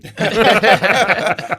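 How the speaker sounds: a big burst of real laughter; loud laugh. Real, not acted. Fighter laughing at his wife's advice, a loud real laugh. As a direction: laugh hard at the punchline.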